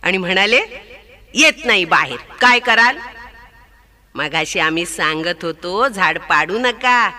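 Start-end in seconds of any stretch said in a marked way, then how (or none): 1.3-3.0 teasing sparrows. Acted. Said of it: "चिमणा चिमणी कुतकन हसले".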